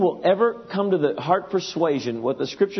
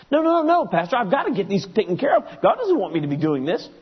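a hint of a defensive church member insisting; protesting churchgoer; 4 semitones higher than usual. Churchgoer argues with the pastor, lightly voiced protest.

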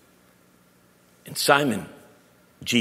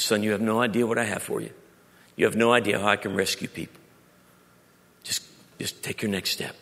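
tender God voice. Acted. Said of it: "He says".

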